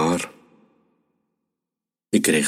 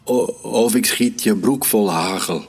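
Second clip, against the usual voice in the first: mild, higher-pitched mock bellow; tough-guy bellow; 5 semitones higher than usual. A narrator's reading. Child playing hunter threatens the hare, a mild bellow. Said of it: "Ik brulde als een bink".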